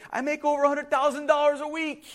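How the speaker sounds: high, sustained declaration; self-assured castaway in a high pitch; confident boast. Retold or imitated. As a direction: state it as the obvious answer. Castaway repeats his boast.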